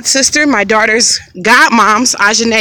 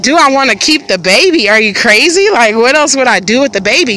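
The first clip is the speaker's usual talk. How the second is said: retold disbelief with swooping pitch; imitated indignant inner reaction; incredulous retort. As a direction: throw the question back as if it's crazy. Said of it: "looking at this lady like".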